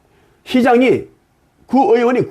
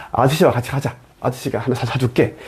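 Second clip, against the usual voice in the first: tender reassurance; 6 semitones lower, 4 dB quieter than usual. Pretend. A man offering to buy a crying child a toy, tender and softer. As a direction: lower and softer, coaxing a child along.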